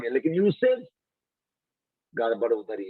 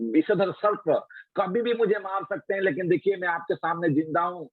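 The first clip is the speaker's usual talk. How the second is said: put-on higher, earnest child telling his story; orphan boy's voice; 5 semitones higher than usual. Boy Yama telling the queens his story, higher childlike voice. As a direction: speak as a brave little orphan. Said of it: "बोलते हैं".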